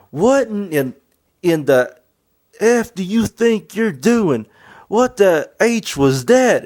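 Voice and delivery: loud, slow, high-pitched outraged yell; angry yelling. Retold or imitated. Board of directors yelling at a player, furious shout. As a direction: bellow it like an enraged board member chewing out a player.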